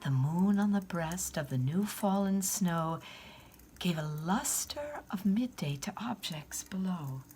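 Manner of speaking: gentle storyteller reading a Christmas poem. A narrator's reading. Church reader telling the Christmas poem to listening children.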